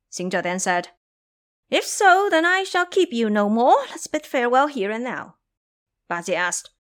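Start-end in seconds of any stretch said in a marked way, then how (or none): 1.7-6.7 much higher and louder, grandly defiant; a free monkey king declaring himself unbound; proud monkey king. A narrator's reading. Monkey king proudly refusing to return to his master. Xing Zhe refuses to leave.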